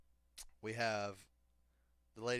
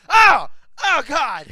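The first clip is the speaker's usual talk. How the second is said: very high, loud agonized outburst; louder mock wails; 23 dB louder, much slower than usual. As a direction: scream in imitated agony, over the top. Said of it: "she'd get louder".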